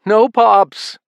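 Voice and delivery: frightened. A narrator's reading. Son answering in fear.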